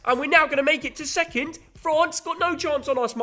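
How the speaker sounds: high, loud put-on Australian accent; mock Australian accent. Son mocks his dad's pick with a put-on Australian accent. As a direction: boast in a cartoon Aussie voice. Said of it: "why are you doing a Cockney accent".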